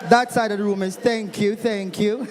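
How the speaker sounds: outside voice. Real, not acted. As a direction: call out over the crowd. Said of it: "I'm gonna use my outside voice now".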